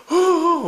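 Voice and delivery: imitated child sobbing. Father imitating his fallen daughter sobbing, high and loud. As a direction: do the little girl's hiccuping cry. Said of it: "울길래".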